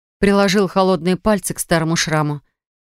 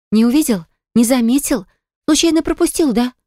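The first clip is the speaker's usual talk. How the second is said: haughty taunt; 6 semitones higher than usual. A narrator's reading. Eva taunts Aram about ignored calls, higher haughty scorn. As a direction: toss it down from above. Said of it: "бросила свысока".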